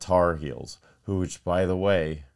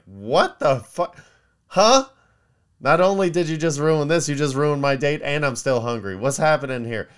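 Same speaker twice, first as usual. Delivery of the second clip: higher and louder, indignant and furious; outraged diner; 8 semitones higher, 7 dB louder than usual. Retold or imitated. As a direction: rant at the waiter who ruined your date. Served diner blows up at prank.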